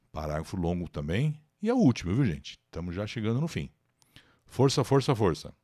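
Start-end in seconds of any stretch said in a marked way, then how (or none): 4.5-5.5 force, force, force, pushing the class on; rally the students to the finish; encouraging cheer. Real, not acted. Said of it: "encouraging students to push on". (incentivo animado aos alunos)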